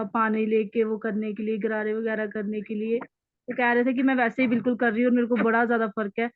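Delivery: bad connection. Real, not acted. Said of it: "आपकी आवाज बहुत कट रही है".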